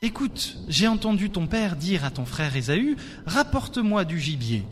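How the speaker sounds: steady storyteller reading of Genesis; bible reading. Acted. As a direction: read the passage like a story to the congregation. Scripture reading over music.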